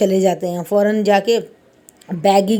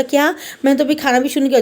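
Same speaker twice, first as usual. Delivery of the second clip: surprised; 6 semitones higher, faster than usual. Retold or imitated. Shocked at being rushed to class.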